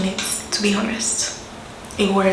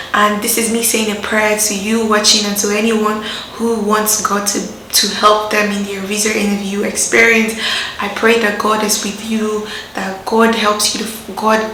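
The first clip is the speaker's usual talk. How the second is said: prayer for viewers. Acted.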